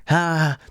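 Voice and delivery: mock editing sound effect. Mocking fancy crazy editing for viewers, imitated sound effect. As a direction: imitate a flashy zoom effect with your voice.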